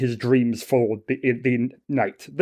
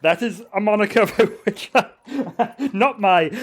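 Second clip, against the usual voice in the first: higher, halting, laughing through the character voice; flustered zealot; 5 semitones higher, slower than usual. Acted. Zealot answering the stallholder's nickname for him, flustered. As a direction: stumble stiffly over an unwelcome nickname.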